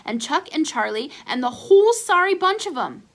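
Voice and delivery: grumbling. Acted. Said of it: "grumbled Ace".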